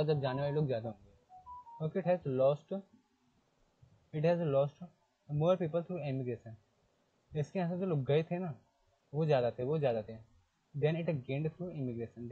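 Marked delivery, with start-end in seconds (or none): 1.8-6.5 reads the English line out word by word, slowly; slow textbook reading. Shown as a demonstration. Teacher reading the textbook to students, slow and deliberate. 10.8-12.3 slow textbook reading. Shown as a demonstration. Teacher reading the book line to students, very slowly.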